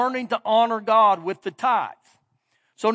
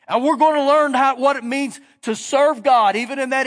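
earnest parent; 3 semitones higher, 4 dB louder than usual. Pretend. Parent voiced talking to children.

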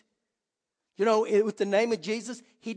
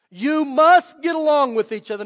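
louder, "must" hit hard; urgent loud repeat; 4 semitones higher, 9 dB louder than usual. Shown as a demonstration. Preacher pressing the verse home, loud emphatic. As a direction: say "must" like a command, full voice. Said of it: "as urgently as I can".

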